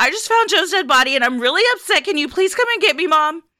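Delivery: very high, frantic, panicked, hysterical yelling. Retelling a sister yelling into the phone to Mom, imitating hysterical yelling. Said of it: "becoming hysterical and yelling into the phone".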